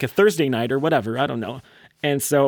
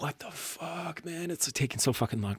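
grumbling aside; 2 semitones higher, 13 dB quieter than usual. Retold or imitated. Band impatient at long set.

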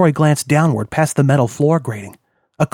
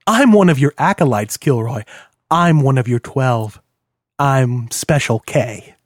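menacing reveal. Acted. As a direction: savour the reveal of the name. Villain reveals himself slowly.

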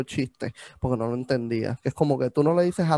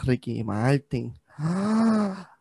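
mock realization; slower than usual. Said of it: "yo digo como que".

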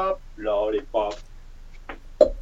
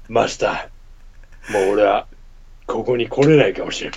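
gruff voice; 4 dB louder than usual. Acted. Gruff patron monologue.

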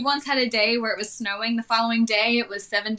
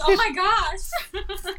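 drawn-out oh my gosh; 9 semitones higher, much slower than usual. Retold or imitated. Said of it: "I'm like".

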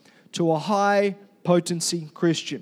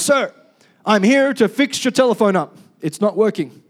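lightly voiced soldier reporting, louder at first; dutiful private; 5 dB louder than usual. Private answering the colonel who barked, lightly acted soldier's report. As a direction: report up to an officer, a touch military.

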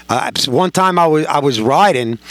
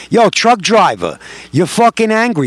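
ripping into him; 3 semitones higher than usual. Retold or imitated. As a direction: taunt him, raising your voice and pitch. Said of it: "I start ripping into him".

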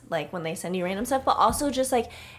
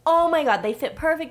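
higher, louder excited date; excited quote; 9 semitones higher, 4 dB louder than usual. Retold or imitated. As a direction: gush like he just saw them fit. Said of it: "He's like".

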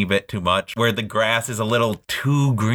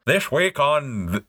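put-on slow, higher newsreel voice with a Scottish accent; Scottish accent attempt; 5 semitones higher than usual. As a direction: have a shaky stab at a Scottish newscaster. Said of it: "do that with a Scottish accent".

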